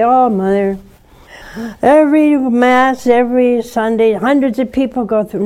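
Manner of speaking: mimicking the caller. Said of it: "And you say".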